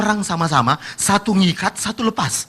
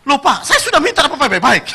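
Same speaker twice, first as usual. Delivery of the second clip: pitch rising again; 7 semitones higher, 3 dB louder than usual. Retold or imitated. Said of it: "setelah nadanya nurun lagi, tinggi lagi".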